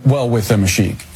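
ordinary delivery

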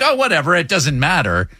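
breezy brush-off imitating his wife, starting high; dismissive wife. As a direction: imitate a wife waving it away. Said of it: "She's just like".

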